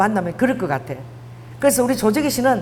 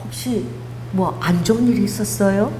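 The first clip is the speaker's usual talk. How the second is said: worried, gentle. Retold or imitated. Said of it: "막 걱정이 돼서".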